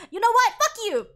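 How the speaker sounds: loud, high mock kiss-off; defiant parting shot. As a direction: spit it at him as she leaves. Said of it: "She's like".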